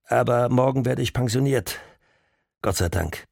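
lightly voiced older officer, hesitant; a hint of a friendly old cop; older policeman voice. Caller speaks, older policeman.

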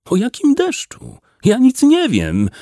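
high, effortful protest; strained reply. A narrator's reading. Wydra, grabbed by the throat, answers Bernard, strained. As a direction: plead ignorance in a high, straining voice. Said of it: "odpowiedział z wysiłkiem wydra".

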